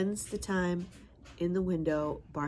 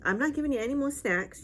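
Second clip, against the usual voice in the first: playful scolding; 8 semitones higher, 4 dB louder than usual. Real, not acted. Scolding the dog.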